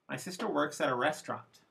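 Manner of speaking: "restaurant" carries the focus pitch; stress on restaurant. Shown as a demonstration. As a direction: lift "restaurant" at the end. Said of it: "Restaurant is the last content word".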